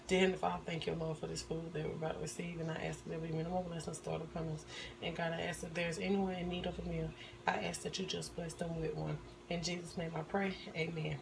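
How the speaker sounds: hushed, reverent grace; quiet prayer. Acted. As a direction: murmur a mealtime prayer softly. Blessing the food.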